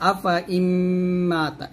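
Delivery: আফা ইম্মাতা with short fa and a long hummed mm; no stretch on fa. Shown as a demonstration. Teacher demonstrating the extra alif, fa unstretched in আফা. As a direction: keep the second a of আফা short, linger on ইম্মাতা. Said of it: "এই ফাতে টান দেওয়া যাবে না".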